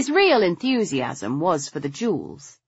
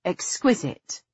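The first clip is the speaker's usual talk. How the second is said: breathed. A narrator's reading. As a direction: breathe the word out. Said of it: "I breathed".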